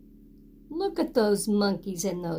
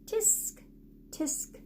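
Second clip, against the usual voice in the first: soft tutting tisk; monkeys tutting; 4 semitones higher, 11 dB quieter, slower than usual. Acted. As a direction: cluck it back quietly like teasing monkeys.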